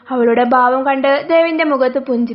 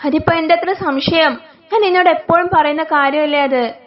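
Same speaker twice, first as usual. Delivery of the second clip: scheming mother-in-law; 2 semitones higher than usual. Acted. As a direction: play the fond mother-in-law who hates her son's wife.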